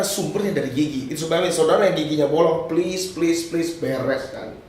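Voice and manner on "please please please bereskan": slow plea. Real, not acted. Lembut memohon jemaat membereskan gigi.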